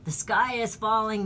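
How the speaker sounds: half-hearted Chicken Little alarm; mock scream. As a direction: imitate panicked doomsayers without really screaming. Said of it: "The Dems scream".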